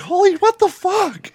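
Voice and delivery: high-pitched, drawn-out disbelief; slow squeaky shock; shocked outburst. Retold or imitated. Retold own outburst, high.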